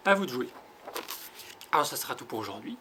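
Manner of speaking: bright, loud send-off; cheerful call. Real, not acted. Teacher to pupils at home, a loud cheerful call. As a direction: hand over the task with cheer. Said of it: "cheerful sign-off to children".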